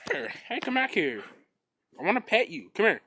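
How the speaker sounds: high, loud call to the dog; calling a runaway dog. Real, not acted. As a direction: call the dog back, pleading. Calling dogs in backyard.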